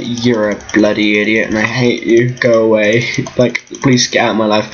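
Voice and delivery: low mock disgust, imitating him; low, resentful imitation; brother's hateful look voiced. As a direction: voice his silent glare as a low grumble. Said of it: "Just sat here like".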